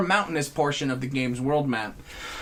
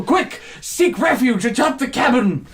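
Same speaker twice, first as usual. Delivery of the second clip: mock heroic command; 6 semitones higher than usual.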